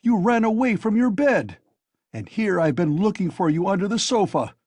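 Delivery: high, loud furious shout; angry shouting. A narrator's reading. Razumihin shouts at Raskolnikov, furious to find him out. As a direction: yell at him in real anger. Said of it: "he shouted at the top of his voice".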